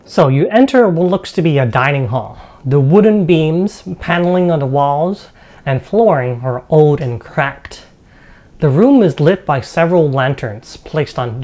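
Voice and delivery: game master's measured narration; storyteller describing a dining hall; scene setting. Acted. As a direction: read out the room description to the players.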